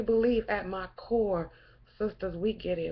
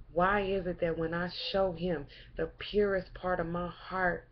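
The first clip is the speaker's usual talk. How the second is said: hurt and quiet; 3 semitones lower, 5 dB quieter than usual. Real, not acted. Hurt questioning of black men.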